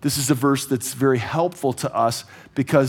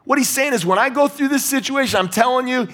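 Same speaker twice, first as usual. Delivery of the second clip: emphatic preaching; 9 semitones higher than usual. Real, not acted. Preacher presses the point home.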